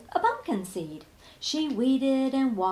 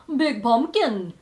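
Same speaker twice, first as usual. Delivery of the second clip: slow, loud hulking vampire; big vampire voice; 8 dB louder, slower than usual. Acted. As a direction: loom over it, slow and heavy. Vampire arrives.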